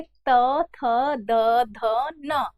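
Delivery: त, थ, द, ध, न with tongue against the teeth; dental consonant demo. Shown as a demonstration. Teacher showing tongue touching teeth, dental consonant demo. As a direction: sound out त, थ, द, ध, न one at a time. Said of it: "जीभ जो है वो दांत को".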